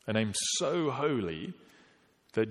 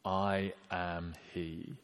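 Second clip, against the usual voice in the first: hushed quote; 2 semitones lower, 7 dB quieter, much slower than usual. Acted. Quoting Jesus at his arrest.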